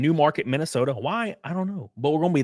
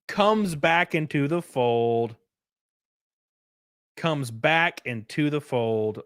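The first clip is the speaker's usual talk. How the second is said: dramatic announcement; slower than usual. Acted. Dramatic announcement of Doc's return.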